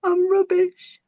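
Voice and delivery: very high, loud tearful whine; crying little tree. Acted. Little tree answering Mother Nature, high tearful whine. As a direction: wail it like a sulky child. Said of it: "He said".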